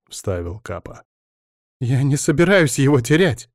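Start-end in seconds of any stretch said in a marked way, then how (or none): 1.8-3.5 high, louder, tearful protest; sobbing. A narrator's reading. Alina refusing to lose Bogdan, sobbing protest. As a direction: sob the words out. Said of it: "всхлипнула Аля".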